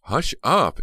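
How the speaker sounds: high, loud telling-off; sharp hushing. A narrator's reading. Mild aunt silencing her husband, strong reproof. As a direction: shush him with unusual force. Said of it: "Strong words for her".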